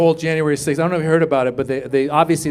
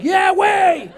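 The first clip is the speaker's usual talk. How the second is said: lightly mocking emphatic; 11 semitones higher than usual. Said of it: "the people on the left were like".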